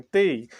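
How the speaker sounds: ते said crisply; ते with a dental t and long e; letter name demo. Shown as a demonstration. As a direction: model ते for the class. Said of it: "ते की pronunciation हम बिल्कुल सही पढ़ते हैं".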